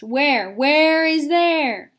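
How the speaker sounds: baffled and anxious; a touch of alarm; alarmed question. A narrator's reading. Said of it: "they asked".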